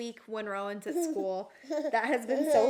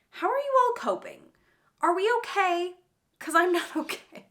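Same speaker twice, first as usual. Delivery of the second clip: exasperated; 8 semitones higher, 5 dB louder than usual. Real, not acted. Pleading to viewers.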